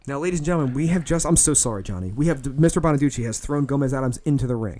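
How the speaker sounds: lightly voiced ringside announcer; mock play-by-play commentary; wrestling commentator. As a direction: call the match like a TV wrestling host.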